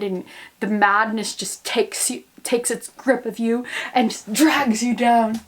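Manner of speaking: slow spooky storyteller; hammed-up slow creepy voice; mock ominous narrator. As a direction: draw out the doom playfully. Dramatic talk of madness.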